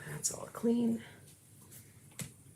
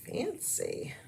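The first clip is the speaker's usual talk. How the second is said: hushed imitation of the commercial elf; whispered fancy; 6 semitones higher than usual. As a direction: breathe the word fancy. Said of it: "that commercial around the holidays".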